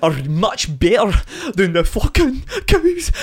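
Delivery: slow, drawn-out mock Scottish accent; Scottish farmer. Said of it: "That's every fucking Scottish farmer".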